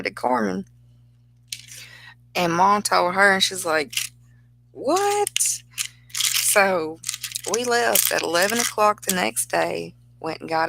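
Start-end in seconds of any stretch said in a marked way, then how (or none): 4.7-5.6 very high startled squeak; shocked what. Retold or imitated. Daughter told of the wedding, high startled squeak. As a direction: squeak it in disbelief.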